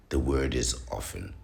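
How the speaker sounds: "often" said plainly as OFF-en; matter-of-fact "often" with no T sound; silent T in often. Shown as a demonstration. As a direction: leave the T out of "often". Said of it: "The T is silent".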